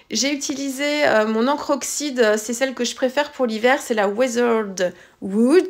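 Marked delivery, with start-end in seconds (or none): 4.1-5.7 "Weathered Wood" said slowly in a strong French accent; self-mocking French take on "Weathered Wood"; French accent English. Real, not acted. Naming her favourite winter ink, "Weathered Wood" in French accent. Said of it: "toujours avec mon bel accent".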